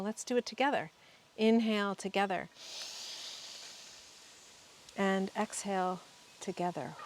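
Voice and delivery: measured, calm breathwork guide; guided breathing meditation. Real, not acted. Guide leading listeners to inhale and exhale together, guided meditation. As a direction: lead the group gently through each breath, leaving long pauses.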